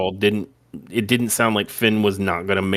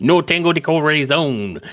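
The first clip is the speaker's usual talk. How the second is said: bad Spanish accent; 3 semitones higher than usual. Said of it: "in the worst Spanish accent ever".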